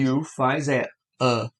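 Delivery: "A" as the short English u in "cup", slowly; short u sound. Shown as a demonstration. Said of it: "e o som que". ("A" como o u curto do inglês)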